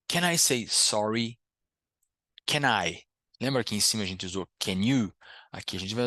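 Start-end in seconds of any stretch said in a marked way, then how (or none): 2.5-3.0 "Can I" joined as "ca-nai"; linked can I. Shown as a demonstration. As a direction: carry the n of "Can" into "I". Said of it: "conecto som de consoante em som de vogal".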